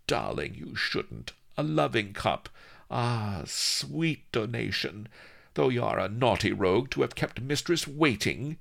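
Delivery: high, gushing coquette; playful. A narrator's reading. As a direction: scold him flirtatiously. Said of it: "she added playfully".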